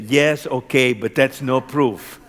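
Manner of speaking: retelling a stubborn challenge, firm and loud; obstinate retort. Retold or imitated. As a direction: push back stubbornly, forceful on the first words. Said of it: "I was a little obstinate".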